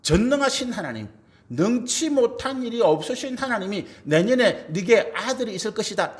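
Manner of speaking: preacher voicing God's forceful rebuke; stern reproach. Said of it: "강하게 책망하시는 말씀이죠". (강하게 책망하듯)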